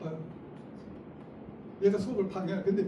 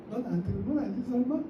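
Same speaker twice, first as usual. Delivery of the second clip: light joking check-in; 3 semitones higher, faster than usual. Shown as a demonstration. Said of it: "다 같이".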